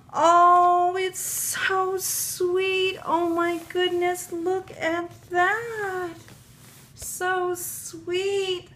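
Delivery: high, slow, drawn-out cooing; gushing. Real, not acted. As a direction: melt over something adorable. Gushing over the bunny.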